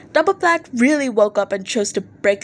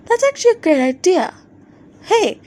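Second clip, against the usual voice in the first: higher, louder eager agreement; mildly voiced excited bandmate calling out; 9 semitones higher, 4 dB louder than usual. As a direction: jump at the idea. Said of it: "At Yusano the Fuck".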